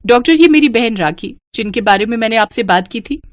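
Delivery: lightly voiced eager young woman; cheerful younger sister. Rimjhim greets sister and doctor.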